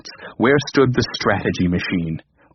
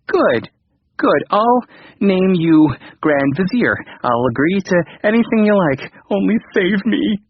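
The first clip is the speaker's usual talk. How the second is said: high, eager pleading; desperate king; 8 semitones higher than usual. A narrator's reading. Frightened king grovels to his computer, high and eager. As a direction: grovel to save your skin.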